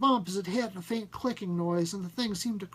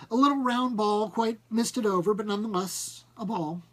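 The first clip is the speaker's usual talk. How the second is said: excited; 5 semitones higher, 5 dB louder than usual. A narrator's reading. Farnsworth excitedly describes the ball.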